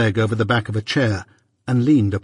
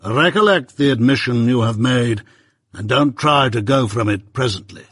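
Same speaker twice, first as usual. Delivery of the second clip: measured, stern lawyer, lightly voiced; Jaggers.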